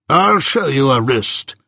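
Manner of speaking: slow, deliberate insistence; immovable determination. A narrator's reading. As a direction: repeat it slowly, brooking no refusal. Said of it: "with an immovable determination to show it".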